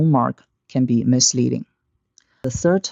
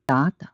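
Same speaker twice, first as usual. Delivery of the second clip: first DA rises, second DA short and low; rising, then low. Shown as a demonstration. Teacher shows two third tones, DA rising then DA low and short. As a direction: lift the first DA, drop the second. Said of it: "the first third tone rises".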